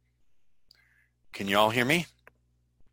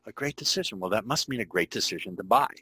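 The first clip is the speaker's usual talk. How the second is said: mock delighted unconscious; faster than usual. Unconscious mind voiced, surprised delight.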